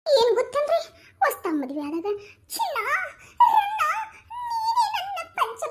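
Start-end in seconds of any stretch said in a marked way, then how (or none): 2.5-5.6 husband's sweet talk. Retold or imitated. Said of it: "ಅಂತಾರ".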